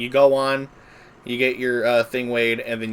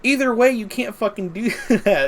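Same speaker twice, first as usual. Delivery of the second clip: laughing disbelief; 12 semitones higher, 4 dB louder than usual. Real, not acted. Exasperated retort, laughing.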